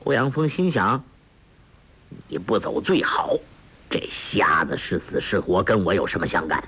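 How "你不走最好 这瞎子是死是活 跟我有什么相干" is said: low, hushed, quick whisper; inner thought. Acted. Old master thinking to himself about the blind man, hushed low whisper. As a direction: mutter it under the breath, fast.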